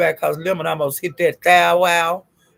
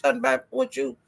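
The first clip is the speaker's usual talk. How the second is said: higher, rising, faster retort; host snapping back at Ness, higher and faster; calling her out; 7 semitones higher, faster than usual. Retold or imitated. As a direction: shut down the lie with rising heat. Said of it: "She said".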